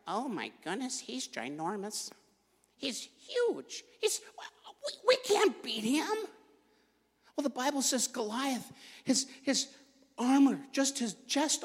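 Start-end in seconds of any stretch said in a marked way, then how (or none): 0.1-6.1 scared soldiers. Retold or imitated. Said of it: "The Israelites are going".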